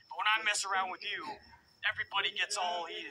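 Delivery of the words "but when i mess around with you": Braun Strowman voice. Retold or imitated. Host mimicking Braun Strowman brushing off angry fans, loud and dismissive. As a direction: puff up and wave off the critics like a giant. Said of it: "in the Braun Strowman voice".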